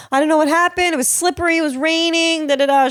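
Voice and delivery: high, innocent sister voice; sister's excuse. Retold or imitated. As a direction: play the innocent little sister. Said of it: "She was like".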